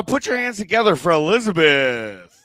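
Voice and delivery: rally the room's applause for the act; open-mic host bringing up a performer; stage announcer. Real, not acted. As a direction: emcee introduction, stretching the name.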